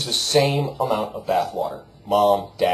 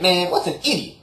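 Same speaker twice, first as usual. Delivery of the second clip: dopey dude; 8 semitones higher than usual. Retold or imitated. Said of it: "And he said".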